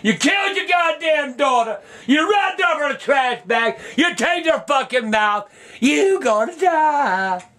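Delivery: hurls accusations at the screen; real fury at a killer; angry yelling at the TV. Real, not acted. Yelling at defendant on TV.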